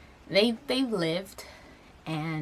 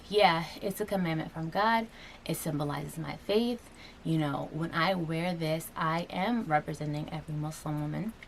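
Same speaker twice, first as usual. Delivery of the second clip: heartfelt answer; 2 semitones lower than usual. Shown as a demonstration. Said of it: "Now I can, you know, go back and think".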